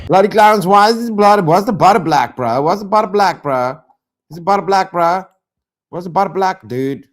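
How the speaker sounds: loud, high outraged yelling at the screen; mad yelling. Real, not acted. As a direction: yell it in real disbelief, again and again. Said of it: "I'm mad now".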